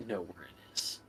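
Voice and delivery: low, soft, deferential report; humble servant. Acted. Servant reporting failure to his lord, low and meek. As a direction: report the bad news meekly.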